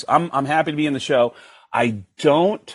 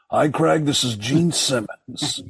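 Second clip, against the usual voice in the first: a rock musician's voice; slower than usual. Retold or imitated. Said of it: "I still have this voicemail".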